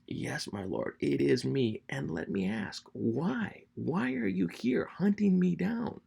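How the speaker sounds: plaintive questioning that rises high and slows at the end; changed, respectful tone. Acted. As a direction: humbly appeal to the king, pitch climbing. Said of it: "his tenor totally changes with Saul".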